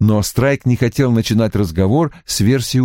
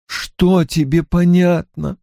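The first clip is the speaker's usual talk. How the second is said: slow, higher-pitched challenge; harsh demand; 8 semitones higher, slower than usual. A narrator's reading. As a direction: demand an answer, mildly hard. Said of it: "жёстко спросила Анна". (жёстко, с нажимом)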